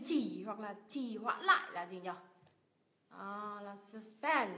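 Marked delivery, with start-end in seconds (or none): 3.8-4.5 "suspend" with a drawn-out PEND; light first syllable, weight on PEND in "suspend"; second-syllable stress. Shown as a demonstration. Teacher giving the answer "suspend", stress on PEND. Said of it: "Nhấn âm tiết thứ hai ạ".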